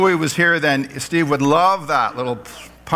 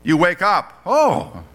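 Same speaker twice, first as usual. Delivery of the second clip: aha moment; 3 semitones higher, slower than usual. Shown as a demonstration. Preacher acting out an aha moment for the congregation, mildly excited. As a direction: sound the sudden realisation. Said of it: "I would call this like an aha moment".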